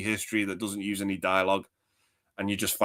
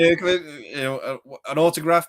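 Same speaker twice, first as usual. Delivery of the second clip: higher, theatrical host voice; Peter Vincent impression; 6 semitones higher, 5 dB louder than usual. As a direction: play the grand old horror actor. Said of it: "doing impressions of Peter Vincent".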